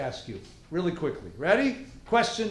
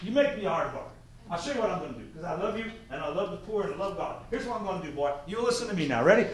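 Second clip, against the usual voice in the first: put-on Texan farmer accent; faster than usual. Farmer offering students a bargain, folksy Texan accent. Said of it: "if you're gonna talk with that accent".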